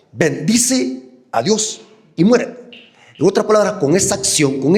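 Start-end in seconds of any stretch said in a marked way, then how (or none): 0.1-2.7 slow, higher, sneering taunt; arrogant mockery. Job's wife taunting her suffering husband, slow arrogant sneer. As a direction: drag it out with scornful sarcasm. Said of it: "en un tono arrogante".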